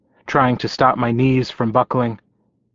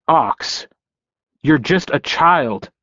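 shouting; 4 semitones higher, slower than usual. Acted. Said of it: "he shouted at me later".

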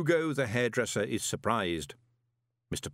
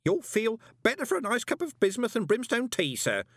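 put-on much higher old man's quaver; 13 semitones higher, 3 dB louder than usual. A narrator's reading. Old Groat soothes Moist with a much higher quaver. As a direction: offer tea with a trembling voice. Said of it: "Groat quavered".

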